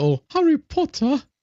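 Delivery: very high, pitched-way-up elf voice. Retelling turning around to someone in Harry Potter glasses, in a Dobby voice. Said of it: "does sound like Dobby when you say it that way".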